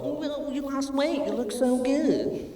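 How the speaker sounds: sweet, slow mock compliment; mock sentimental. Mocking families who gush over weight loss, in a syrupy voice. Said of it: "we don't sit around and go".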